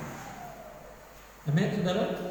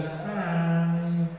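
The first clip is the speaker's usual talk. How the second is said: curt greeting. Shown as a demonstration.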